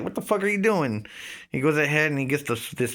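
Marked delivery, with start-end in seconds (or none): 0.0-1.1 high, shocked cry of protest; startled yelp. Retold or imitated. Pinned by his friend, shocked high protest. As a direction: squeal it like you've just been pinned. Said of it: "and I'm like".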